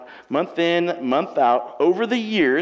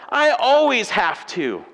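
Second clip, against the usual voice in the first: guilt-tripping phrase; 5 semitones higher, 5 dB louder, slower than usual. Pretend. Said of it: "using phrases like".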